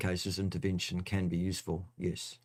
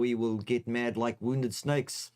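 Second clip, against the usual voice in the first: bad Russian accent; 3 semitones higher, slower than usual. Doctor Mike the Russian physician threatens the funny man, mock Russian accent. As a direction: play a menacing Russian doctor, badly. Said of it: "That's my worstest, worstest accent ever".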